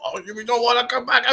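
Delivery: imitating a threatening waiter. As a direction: sneer at them like the angry waiter. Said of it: "he starts threatening us".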